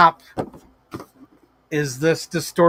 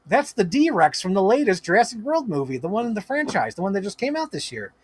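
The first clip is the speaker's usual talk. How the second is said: 1 playing dumb; 3 semitones higher than usual. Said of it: "I'm playing dumb".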